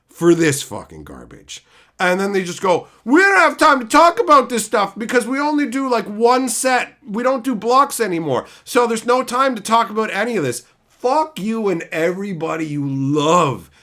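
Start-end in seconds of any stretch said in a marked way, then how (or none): 3.0-10.6 mock excuse. Mocking company excuse.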